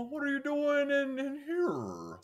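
high, startled question; old men shocked by intruders, high surprise. Retold or imitated. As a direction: ask it as if caught off guard. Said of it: "just utterly shocked".

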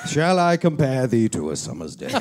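low, grand theatrical reading; Frasier. Acted. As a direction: recite it like a pompous radio host.

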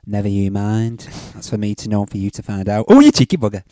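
purring innuendo; low flirty persona voice. Pretend. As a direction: play the cheeky lothario. Doctor Love persona throughout.

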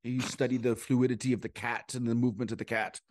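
acting teacher's affected faux British accent; lightly imitated faux British teacher. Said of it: "a faux British accent".

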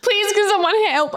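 high, pleading, pitiful voice; pitiful high plea for help; sympathy voice. Retold or imitated. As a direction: play for sympathy like a wounded damsel. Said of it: "I'm gonna need to play the sympathy votes".

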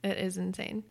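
soft, hushed whisper. Real, not acted. Host echoes her co-host's awe in a soft whisper. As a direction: whisper it like a secret thrill. Co-hosts marvel at episode count.

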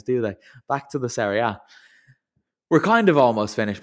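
normal talking voice

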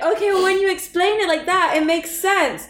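a hint of the sister's reluctant agreement; sister conceding.

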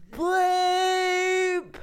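laughing tears; tearful laughter. Real, not acted. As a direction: crack up through tears. Crying laughter after emotional moment.

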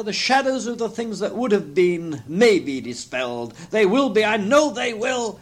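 high, emphatic exclaiming; Scrooge, overjoyed relief. A narrator's reading. Scrooge sees all his possessions safe, overjoyed.

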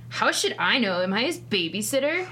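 put-on angsty teenage boy voice. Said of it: "I think I'm gonna go with angsty teenage boy voice".

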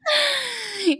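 high burst of laughter; helpless shrieking cackle. Real, not acted. Cackling at racy line.

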